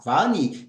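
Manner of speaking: Va-ani said slowly in two parts, va then ani; model pronunciation. Shown as a demonstration. Teacher modelling Va-ani for students, careful and clear. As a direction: spell out Va-ani syllable by syllable. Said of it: "Ficará dessa forma".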